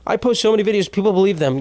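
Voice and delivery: hushed confession; whispering. Real, not acted. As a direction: whisper it like a secret. Conspiratorial confession.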